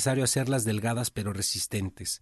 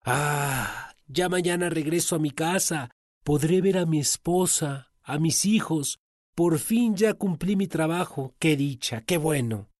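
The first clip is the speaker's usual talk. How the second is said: happy servant; 5 semitones higher than usual. Acted. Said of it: "encontrándose feliz".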